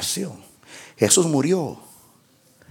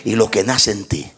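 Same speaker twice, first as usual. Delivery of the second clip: much lower and softer, almost whispered; hushed preaching; 7 dB quieter than usual. Acted. Pastor telling the church of new birth, hushed and low. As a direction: draw the church in with a hush.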